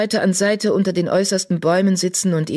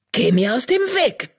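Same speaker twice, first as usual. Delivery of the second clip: put-on higher, scratchy old tomcat croak; 8 semitones higher than usual. Old tomcat croaking at the badger blocking him. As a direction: croak it out like a cranky old cat. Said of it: "krächzte er".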